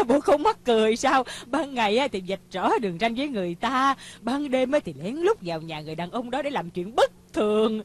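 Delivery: loud, lively mocking amusement; amused gossiping. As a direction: gossip loudly between bursts of laughter. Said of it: "làm gì mà cười dữ vậy".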